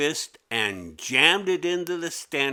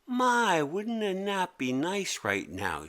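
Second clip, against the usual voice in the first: pretend sleepy; 8 semitones higher than usual. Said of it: "She pretended to yawn".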